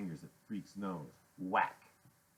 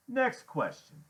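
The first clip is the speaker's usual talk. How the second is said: higher, louder impatient demand; 14 semitones higher, 5 dB louder, slower than usual. Acted. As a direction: push it harder, impatient. Biker repeats, louder and higher.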